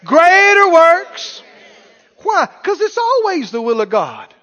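high, loud, hammering preacher call; full-force preaching. Acted. Preacher calling out to the congregation, full force. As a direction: drive it home to the church.

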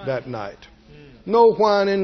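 ordinary delivery

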